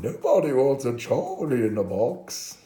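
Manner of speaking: loud, high toy character voice; Charlie in the Box. Acted. Charlie the toy says nobody wants him, high put-on voice. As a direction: pitch it up loud like a lamenting toy. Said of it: "his name was Charlie. He said".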